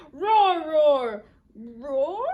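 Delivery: two loud, falling roars; boisterous dinosaur roar. Acted. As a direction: roar it out boldly. Reads aloud Dinosaur's roars.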